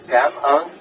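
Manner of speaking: a clear Cảm ơn to be copied; Cảm ơn modeled for the learner to repeat. Shown as a demonstration. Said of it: "Could you repeat after me".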